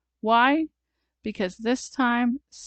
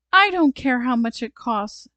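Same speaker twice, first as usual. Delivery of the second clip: put-on higher, louder little-girl demand; determined command; 4 semitones higher, 6 dB louder than usual. A narrator's reading. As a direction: order it with urgent resolve. Sally orders a rescue.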